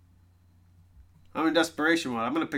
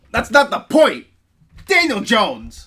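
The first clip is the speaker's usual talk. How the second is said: higher and louder, Daniel Jones dragged out slowly; outraged; 8 semitones higher, 11 dB louder, slower than usual. Real, not acted. Fan outraged at a rival's quarterback, loud and slow. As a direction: spit the name out in disbelief.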